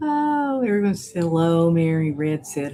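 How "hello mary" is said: plain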